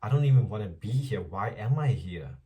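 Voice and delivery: mock exasperation, starting loud and fast; fed up. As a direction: act out being done with everything. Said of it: "I was just done with everything".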